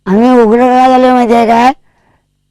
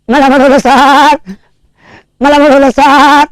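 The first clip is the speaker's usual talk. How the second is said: bleating like a sheep; 3 semitones higher, slower than usual. Retold or imitated. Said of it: "असं का ओरडायलास मेंढरावणी?".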